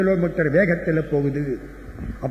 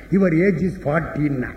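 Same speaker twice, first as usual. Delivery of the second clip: put-on clever boy's answer; much slower than usual. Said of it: "ஒரு கெட்டிக்கார பையன் எந்திரிச்சான்".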